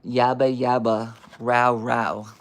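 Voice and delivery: slow, loud, level yabba-yabba bark; deadpan barking. Acted. Reader questioning the book's description of barking, slow deadpan bark. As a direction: spell out the bark slowly and loudly. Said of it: "how is that a description of barking".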